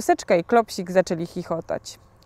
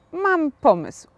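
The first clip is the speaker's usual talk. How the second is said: high bright cry of an idea; pitched way up in eureka joy; excited exclamation; 9 semitones higher, 3 dB louder, slower than usual. A narrator's reading. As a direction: burst out with the idea. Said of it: "zawołał".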